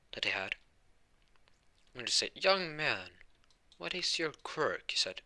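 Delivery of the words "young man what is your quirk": high, slow, lofty questioning; All Might. Acted. Hero questions the boy he met, grandly inquisitive. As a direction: play a grand hero addressing a youngster. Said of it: "as All Might".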